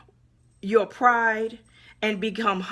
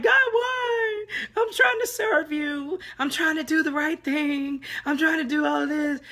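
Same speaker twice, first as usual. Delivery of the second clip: crying out to God; 7 semitones higher than usual. Retold or imitated. Pleading with God in frustration, crying out high. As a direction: cry out in frustration, voice breaking high. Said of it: "I've done this too. Been like".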